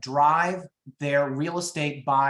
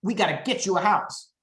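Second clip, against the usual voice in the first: hammed-up excited reaction; mock gushing. Agent pouncing on baby news, mock gushing. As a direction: overeager agent gush, the first words stretched out. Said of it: "it is wrong for me to go".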